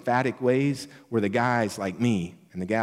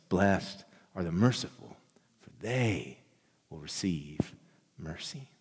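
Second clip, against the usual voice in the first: hushed scripture; 5 semitones lower, 6 dB quieter than usual. Acted. Quoting Jesus, fading to whisper.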